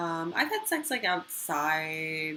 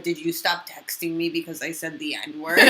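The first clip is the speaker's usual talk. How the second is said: Mike Racine; 8 dB louder than usual. Retold or imitated. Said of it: "You wanna hear my Racine impression?".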